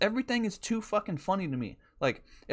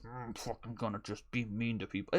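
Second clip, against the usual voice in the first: mock mean inner voice; 5 semitones lower, 8 dB quieter than usual.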